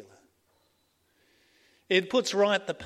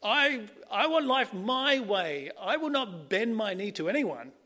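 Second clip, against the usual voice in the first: defiant rebel; 3 semitones higher, 4 dB louder than usual. Retold or imitated. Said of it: "we're saying".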